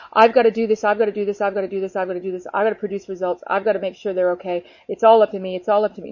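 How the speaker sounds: mock-stressed chant, running on without breaks; pressured self-talk. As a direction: reel off the burdens like a treadmill. Mimics being stuck in pressure.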